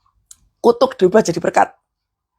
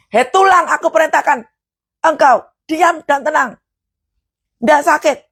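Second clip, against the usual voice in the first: commanding prayer; 5 semitones higher than usual. Shown as a demonstration.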